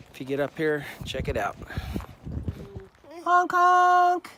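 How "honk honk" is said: high honk honk sound; squeaky clown honk; silly clown. Pretend. Playful honk imitation for someone.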